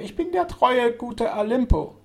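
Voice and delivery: high, loud, slow mechanical drone; talking machine voice. A narrator's reading. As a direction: intone it like an artificial speaking machine. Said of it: "welche dem Erzeugnis einer künstlichen Sprechmaschine glich".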